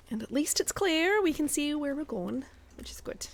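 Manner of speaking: light put-on Scottish accent while gaming; a hint of Scottish brogue, casual chat. Streamer chatting to her stream viewers in a light Scottish accent. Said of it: "we're going to do a little bit of Scottish".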